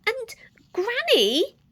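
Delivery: high, slow careful call. Acted. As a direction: tread lightly on each word. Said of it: "Little Red said carefully".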